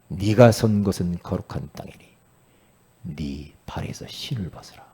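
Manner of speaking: low, solemn command; God speaking. Acted. God tells Moses this is holy ground, solemn low voice. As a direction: intone it low, sinking to a hushed finish. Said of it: "하나님의 음성을 들어요".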